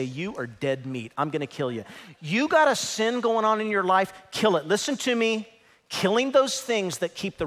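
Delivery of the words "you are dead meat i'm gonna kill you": mock threat. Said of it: "get out your spiritual shotgun and say".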